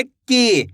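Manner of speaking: की with the ई vowel held long; stretched की. Shown as a demonstration. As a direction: draw out की, stretch the ee. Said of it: "खींच के करना है". (की को खींचकर बोलें)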